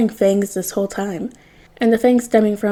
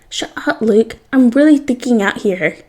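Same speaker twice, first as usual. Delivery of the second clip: screeching; 3 semitones higher, 4 dB louder than usual. Acted. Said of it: "Peter practically screeches".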